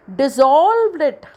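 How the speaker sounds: dissolved drawn out very slowly with emphasis; stress in dissolved. Shown as a demonstration. Teacher gives students a stress example, dissolved slow and emphatic. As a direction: stretch dissolved slowly and press it. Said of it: "तो D फिर से".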